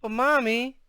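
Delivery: put-on high, sobby little girl plea; tearful whine to mother; starting to sob. A narrator's reading. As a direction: protest like a child near tears. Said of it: "starting to get all sobby".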